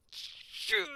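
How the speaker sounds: breathless high whisper; a kid's horrified whisper; whispered curse. Retold or imitated. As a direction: whisper it in shock. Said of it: "I was like".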